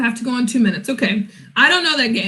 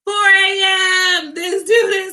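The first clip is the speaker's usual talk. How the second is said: shouted, half-crying complaint; exasperated wail; 5 semitones higher, slower than usual. Real, not acted. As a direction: wail it like you can't believe it. Outraged at 4 am calls.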